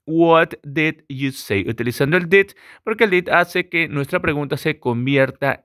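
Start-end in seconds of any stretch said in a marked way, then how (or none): 0.1-1.7 "What did you say?" with a clear "did"; stressed did. Shown as a demonstration. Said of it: "lo correcto es decir". ("What did you say?" marcando el "did")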